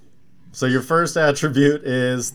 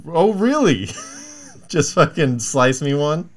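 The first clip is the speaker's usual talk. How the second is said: barber voice; 3 semitones higher, slower than usual. Retold or imitated. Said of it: "he's like".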